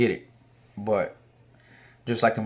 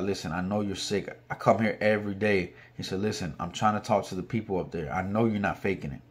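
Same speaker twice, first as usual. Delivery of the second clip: kindly officer; 2 semitones lower, 6 dB quieter than usual. Retold or imitated. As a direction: quietly let him know you believe him. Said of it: "like, a God-fearing man".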